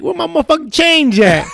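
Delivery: high, laughing mock demand; angry customer. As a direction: demand the change like a furious shop customer. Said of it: "he's like".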